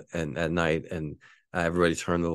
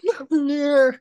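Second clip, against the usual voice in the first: high, loud, shouted sergeant line; hammed-up sergeant shout; mock sergeant; 9 dB louder, slower than usual. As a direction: yell it like the drill sergeant. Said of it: "He's like".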